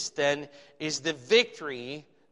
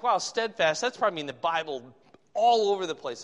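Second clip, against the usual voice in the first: retold moment of surprise, slightly raised pitch; mildly surprised; 4 dB louder than usual. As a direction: recall your own surprise lightly. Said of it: "I was surprised".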